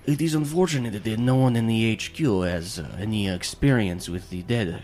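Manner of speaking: lightly voiced character with an accent; measured, lightly accented in-character speech; game master lightly playing a formal figure; Roman.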